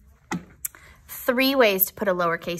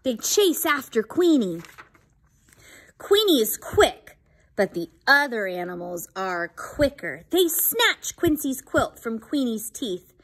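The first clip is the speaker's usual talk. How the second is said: unhurried, expressive picture-book narration; story reading to children. Acted. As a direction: read it aloud for little listeners.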